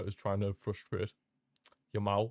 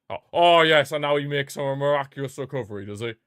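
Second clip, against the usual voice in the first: sarcastic; 2 semitones higher, 6 dB louder than usual. Real, not acted. Sarcastic about faking injury.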